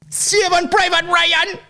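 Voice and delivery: slow, very high mock Jamaican greeting; squeaky Jamaican patois, drawn out; hammed-up Jamaican accent; Chet Hanks. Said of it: "He's at parties like".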